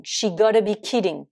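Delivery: "she gotta" with no S after "she"; shorter contraction. Shown as a demonstration. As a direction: drop the 's before "gotta". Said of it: "Contraction donc de".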